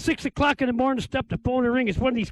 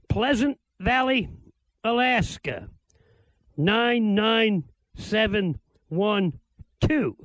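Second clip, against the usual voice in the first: slow dictation; slower than usual. Shown as a demonstration. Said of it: "get a paper and pencil handy".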